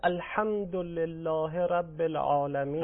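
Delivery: slow Arabic recitation in a Persian accent; Persian-accented prayer recitation, drawn out. Shown as a demonstration. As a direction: recite الحمدلله with plain Persian sounds.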